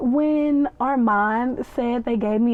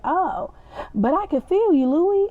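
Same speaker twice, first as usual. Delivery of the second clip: breathy swooning woman; 7 semitones higher than usual. Retold or imitated. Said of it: "And she was like".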